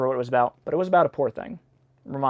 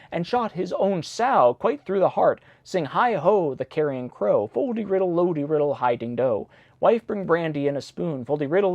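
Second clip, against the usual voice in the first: sing-song rhyme read aloud; bouncy chanting of the verse; nursery rhyme reading. Acted.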